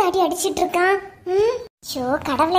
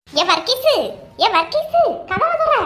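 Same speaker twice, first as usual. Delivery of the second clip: calling out; 5 semitones higher than usual. Acted. Neighbour calls through locked door.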